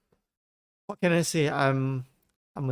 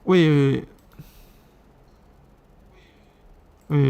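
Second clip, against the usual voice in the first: louder, quick stop-it calls; urgent loud wait; 7 dB louder than usual. Real, not acted. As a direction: halt the machine before it reads on. Stopping the TTS voice reading.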